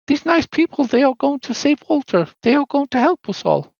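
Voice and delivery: put-on high sweet ghost-girl voice; little girl Rose. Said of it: "and she says".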